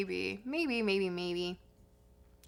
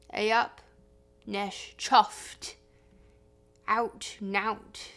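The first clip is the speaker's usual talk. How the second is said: Yorkshire dialect words, one by one; Yorkshire accent showcase; broad Yorkshire; slower than usual. Shown as a demonstration. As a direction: demonstrate broad Yorkshire with pauses between words. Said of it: "how does one explain broad Yorkshire accent".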